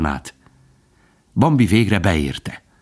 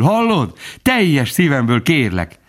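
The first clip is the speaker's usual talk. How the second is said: much higher, impassioned plea; beside himself; 7 semitones higher, slower than usual. A narrator's reading. Bambi begging Faline to stay, impassioned. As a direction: beg her, overcome with love. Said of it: "kiáltott Bambi magán kívül".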